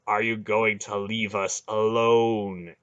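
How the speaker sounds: slow, heavy repeated demand; slow menacing demand. Acted. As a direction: insist coldly. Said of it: "Garion demanded again".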